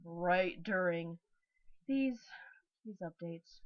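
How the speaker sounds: talking through a burp; words broken by a burp. Real, not acted. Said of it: "it seems like I always burp".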